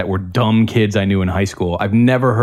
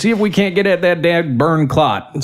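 mock Southern accent; 8 semitones higher than usual. Doctor explaining brain surgery in a mocking Southern accent. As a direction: play a dumb Southern surgeon, pitched way up. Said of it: "the Southern accent and how it just kinda makes you sound stupid".

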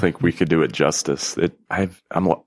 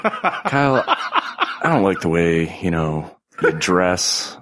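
mock whiny friend; much slower than usual. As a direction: play the fussy friend nagging, half laughing. Mimicking friend's petty complaint.

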